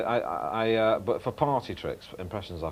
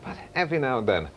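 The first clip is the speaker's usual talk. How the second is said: lower, dropping right down Wogan-style; Terry Wogan dip; 5 semitones lower than usual. Shown as a demonstration. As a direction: plunge the voice down at the end. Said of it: "when you do Terry Wogan".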